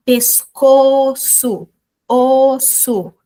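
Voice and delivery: drawn-out words, stressing the rhyme; slow rhyme demo. Shown as a demonstration. Teacher slowly demonstrating a rhyme to students. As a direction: slowly land on the rhyming ending. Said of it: "eles rimam".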